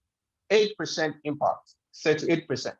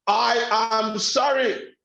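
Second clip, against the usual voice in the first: higher, drawn-out sorry; sorry said one way; 4 semitones higher, slower than usual. Shown as a demonstration. Teacher demoing one way to say sorry. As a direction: say sorry as if you mean it. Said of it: "Same words, two different meaning".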